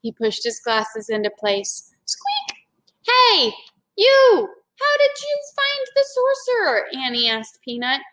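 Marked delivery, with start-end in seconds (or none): 2.1-2.7 tiny high squeak; mouse squeak. A narrator's reading. Peanut answers Annie, tiny mouse squeak. 3.1-6.9 cheerful surprise at the mouse; excited. A narrator's reading. Annie asks Peanut about the sorcerer, eager and high.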